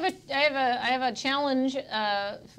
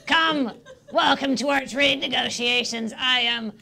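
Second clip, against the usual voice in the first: put-on old crone voice. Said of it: "the old country crone voice".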